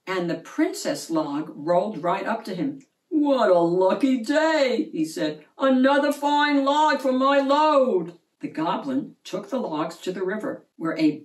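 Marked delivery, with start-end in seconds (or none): 3.1-4.9 goblin voice. A narrator's reading. 5.6-8.2 goblin voice. A narrator's reading.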